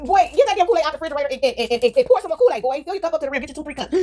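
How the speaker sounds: light mama bossing her son; mother ordering her boy to fill his cup. Acted.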